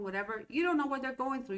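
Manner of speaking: usual speaking voice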